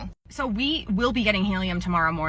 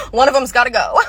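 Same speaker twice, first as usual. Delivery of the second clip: laughing; 3 semitones higher, 8 dB louder than usual. Real, not acted. Laughing punchline.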